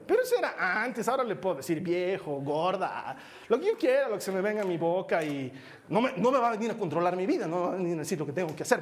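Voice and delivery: hammed-up cocky young adult protest; mock defiance. Grown child rejecting parents' authority, mock defiant. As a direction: play a bratty grown child talking back.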